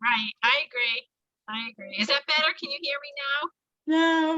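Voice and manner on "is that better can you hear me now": less tinny connection; bad line, a bit improved; slightly clearer phone line. Real, not acted. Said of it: "that's a little bit better".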